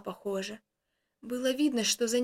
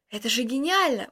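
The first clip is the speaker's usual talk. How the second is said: exclaiming; 4 dB louder than usual. Acted. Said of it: "воскликнул я".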